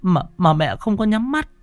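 wife telling her husband the eyes won't close, choked and high; choked sobbing. Acted. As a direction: stutter out the fear between sobs. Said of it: "quay lại nức nghẹn".

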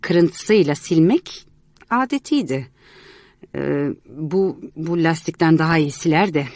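put-on young man explaining, a bit awkward; lightly voiced young man. Young man explaining the ruined plans to Miss Martha, lightly voiced. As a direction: calmly lay out what happened.

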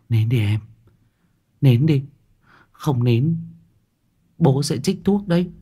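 put-on high girl's character voice; hushing big sister. Gia Linh hushes her crying little brother, high and urgent. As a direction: urge a little one to stop, pitched high.

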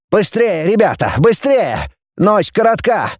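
high, urgent hurrying; urgent command. A narrator's reading. Voronin rushes the team aboard at night, urgent command. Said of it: "громко скомандовал Воронин".

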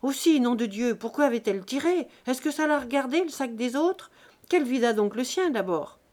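loud, heated reproach to his wife; a husband berating his wife in a quarrel, angry. Acted. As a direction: scold her in a temper. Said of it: "Une querelle éclata".

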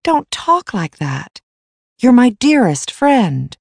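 unhappy. A narrator's reading. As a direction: plead with a dear friend, upset. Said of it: "said Basil unhappily".

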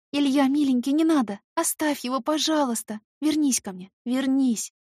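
breathless desperate pleading, high and loud; hyperventilating. Acted. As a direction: gasp out the plea in despair. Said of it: "задыхаясь от отчаяния".

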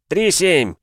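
loud, high, slow announcer call; football commentator. Acted. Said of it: "объявил Никитос".

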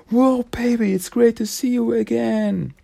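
high, bouncy slick-guy greeting; Silas voice. Acted. Silas greeting Jenny after the punch, high slick voice. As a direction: greet her like a smooth operator.

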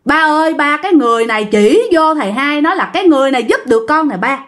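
put-on a lighter mincing girlish voice. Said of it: "Nói vậy đó". (giọng điệu đà nhẹ hơn)

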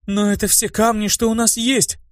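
high indignant cry. Acted. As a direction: protest with hurt indignation. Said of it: "повторно возмутилась Анариэль".

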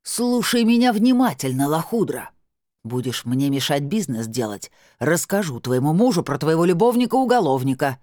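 yelling. Acted. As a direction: shout the whole flat down. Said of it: "заорала на всю квартиру".

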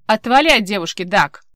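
loud, furious warning; angry shout. Acted. Erni ordering Dag away from the girl, shouting. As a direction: make him back off now. Rescuer confronting the investigator.

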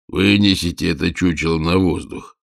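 ordinary delivery, nothing marked

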